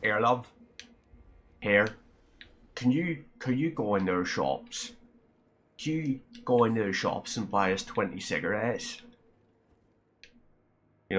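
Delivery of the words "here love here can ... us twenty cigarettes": unappealing Northern Irish voice cadging a favour; broad Northern Irish. Acted. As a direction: put on a broad Northern Irish street accent. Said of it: "a Northern Irish voice, which is more like".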